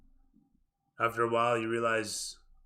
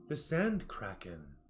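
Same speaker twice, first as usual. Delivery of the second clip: pleasant; 4 dB quieter, slower than usual. Acted. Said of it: "with a pleasant intonation".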